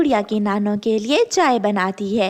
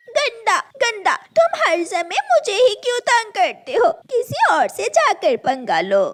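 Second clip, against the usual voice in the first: upset; 10 semitones higher than usual. Acted. Girl upset, pakoras snatched.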